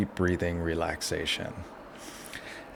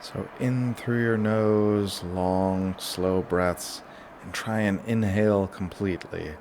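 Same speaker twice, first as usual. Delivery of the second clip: guided relaxation; 6 dB quieter than usual. Shown as a demonstration. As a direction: lead them gently through each breath. Leads a breathing relaxation.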